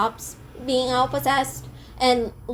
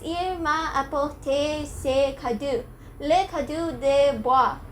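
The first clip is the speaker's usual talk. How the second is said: attempted French; 2 semitones higher, slower than usual. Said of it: "see my attempt".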